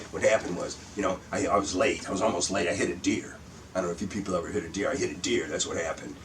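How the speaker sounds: lightly voiced gravelly Steve Iott; a hint of a gravel-voiced comic telling his bit; Steve Iott impression. Comic doing a friend's routine, lightly gravelly. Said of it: "he's got a gravelly voice".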